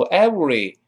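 every with a w sound, no v; every said as ewery; wrong every. Shown as a demonstration. Teacher shows the wrong every. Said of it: "不要读every".

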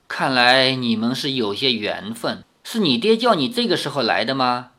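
easy smiling warmth, lightly voiced old woman. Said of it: "老妇微笑着说".

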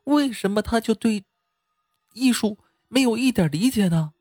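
put-on high-pitched, aggrieved young woman; indignant complaint. A narrator's reading. Girl complaining to the camera about ruined performance art, indignant. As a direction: protest to an audience in a high, indignant voice. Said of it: "对着镜头气愤地说道".

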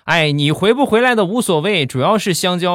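put-on high, matter-of-fact little kid; small child's high voice; childlike voice. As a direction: chirp it high like a child who only cares about snacks. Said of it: "一个稚嫩的声音".

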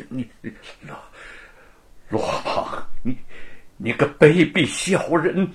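stammering, breathy fury bursting out; trembling with rage. Acted. Wu, shaking with rage, insults Luo. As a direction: choke on the words, then spit it. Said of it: "气的是浑身哆嗦".

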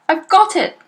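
high, loud and thrilled; triumphant. A narrator's reading. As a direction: crow with delight at the idea. Father's triumphant discovery.

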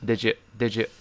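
"did you" fused into "di-dju"; linked pronunciation. Shown as a demonstration. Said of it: "是这么一个声音啊". (did you连读成一个音)

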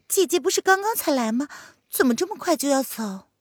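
high, put-on astonished consort; feigned surprise. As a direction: act innocently shocked to see her go. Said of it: "佯装一脸惊讶地看着凌渊". (佯装惊讶的高声)

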